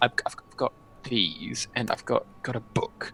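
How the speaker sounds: hushed, soft whisper under the breath. Voicing a character who lists his belongings and mentions a book: whispering. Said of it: "he sort of whispers that out".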